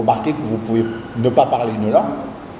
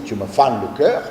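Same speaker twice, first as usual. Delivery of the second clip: put-on Marseille accent; 4 semitones lower than usual. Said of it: "le parler marseillais".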